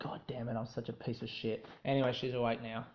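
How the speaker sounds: low, soft embarrassed aside; hushed self-reproach. Real, not acted. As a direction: curse yourself quietly after waking someone. Has just woken someone with yelling.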